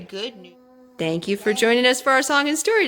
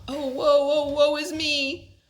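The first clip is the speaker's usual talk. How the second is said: overwrought king; 6 semitones higher, slower than usual. Acted. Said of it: "the old king was overwrought".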